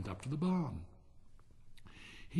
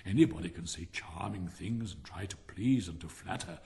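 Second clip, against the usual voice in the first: self-righteous miller; 3 semitones lower than usual. Acted. Miller scolds little Hans for idleness, mildly self-righteous. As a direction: lecture a friend with mild, measured self-importance.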